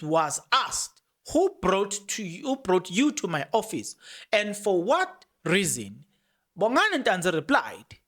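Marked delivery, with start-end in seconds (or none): 1.3-6.0 deliberately slow, word by word. Shown as a demonstration. Repeating the question for viewers, very slow. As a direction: spell it out slowly so nobody misses it. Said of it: "let me say it very slow".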